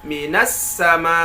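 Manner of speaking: "minas sama" drawn out, lifted on the final catch; an-nabr on final hamzah. Shown as a demonstration. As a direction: stretch "sama" and punch its ending. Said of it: "ketika kita membaca minas sama". ("minas sama" panjang, hamzah akhir dinaikkan)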